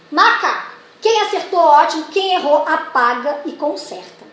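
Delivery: teacher praising pupils after dictation; encouraging teacher. Shown as a demonstration. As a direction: cheer the ones who got it. Teacher praising correct spellings.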